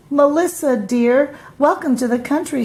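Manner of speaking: lightly voiced friendly country mouse; welcoming hostess. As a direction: greet her guest gladly. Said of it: "she said".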